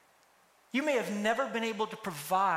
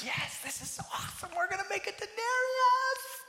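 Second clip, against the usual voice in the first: breathless start, then a high cheer on "denarius"; giddy excitement; 14 semitones higher than usual. Retold or imitated. Workers heading to collect pay, giddy with glee. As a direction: squeal it like a kid who just got paid. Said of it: "they probably came into it like".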